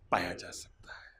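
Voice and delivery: breathy whisper of the key word. Acted. Preacher to congregation, whispering heaven. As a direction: drop to a hushed whisper.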